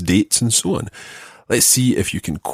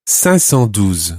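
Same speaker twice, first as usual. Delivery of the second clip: slow model number; slower than usual. Shown as a demonstration. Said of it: "Five hundred and twelve is".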